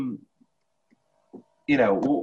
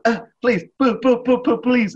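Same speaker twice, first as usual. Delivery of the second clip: high, pleading boo-hoo whimper; mock pleading wail; 11 semitones higher, 5 dB louder than usual. Imitating the actor who gets hit, high pleading whimper. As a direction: beg in a high whiny voice. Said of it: "he's like".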